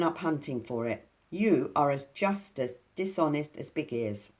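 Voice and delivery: indignant pixie, loud; angry pixie. Acted. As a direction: accuse him to his face. Binky accusing Snoogle.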